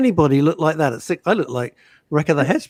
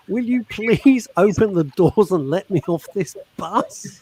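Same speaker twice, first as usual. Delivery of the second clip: mock scream; 4 semitones higher, slower than usual. Host reads out a trapped passenger's plea, mild mock scream. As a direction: play at screaming, drawn out without real volume. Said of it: "I eventually screamed at him".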